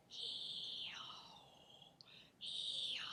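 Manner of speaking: unvoiced whispered vowels ee-oh. Shown as a demonstration. Voice teacher whispering vowels to show the vocal tract. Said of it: "when I whisper".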